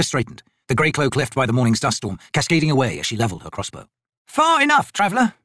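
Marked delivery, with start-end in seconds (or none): 4.3-5.3 high, firm challenge; growled warning. A narrator's reading. Corporal warns off an approaching old man, growled. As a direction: halt the stranger with a growl. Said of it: "she growled".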